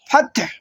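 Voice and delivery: ফাতহ said slowly, ending on a soft breathy হ; slow demo of fath. Shown as a demonstration. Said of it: "এইভাবে". (ধীরে ফাতহ উচ্চারণ)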